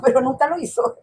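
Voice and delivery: said through a real laugh. Real, not acted. Daughter admitting her mother never apologised, laughing. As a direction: let a laugh break into the words.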